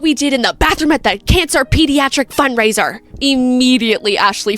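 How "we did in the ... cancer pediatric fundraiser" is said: louder, higher, rushed mock threat; fast threatening rant. Director threatening Ashley through the door, fast loud threat. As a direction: blurt the blackmail out fast. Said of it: "And he says".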